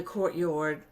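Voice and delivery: courtyard slipping into a New Orleans accent; a touch of New Orleans on "courtyard". Real, not acted. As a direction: let "courtyard" come out New Orleans style. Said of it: "that was my New Orleans accent coming out".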